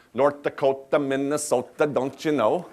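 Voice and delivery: a light Upper Midwest South Dakota lilt; a hint of Minnesota-Dakota accent on don't you know. Shown as a demonstration. Chef shows the crowd his South Dakota accent, lightly. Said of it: "that little, uh, South Dakota accent".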